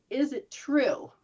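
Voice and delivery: slow questioning. Shown as a demonstration. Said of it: "Then you have to say".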